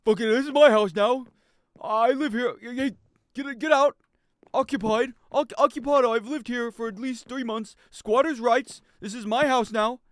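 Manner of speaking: loud, high indignant yelling; mock squatter rant. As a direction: defend the stolen house in a hammed-up shout. Playing squatter shouting at owner.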